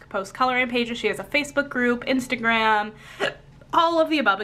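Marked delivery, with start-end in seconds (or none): 3.7-4.4 words jolted by a hiccup. Real, not acted. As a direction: cut off by a hiccup. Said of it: "I just, like, hiccuped".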